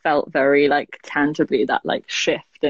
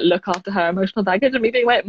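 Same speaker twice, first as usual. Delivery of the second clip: usual speaking voice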